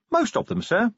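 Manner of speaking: bright high cheerful reply; cheerfully. A narrator's reading. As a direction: chirp it out, pleased with herself. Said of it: "said Angua cheerfully".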